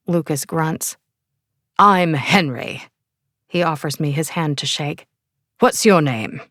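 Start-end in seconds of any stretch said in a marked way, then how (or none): 1.8-6.4 put-on English accent. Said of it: "with an English accent".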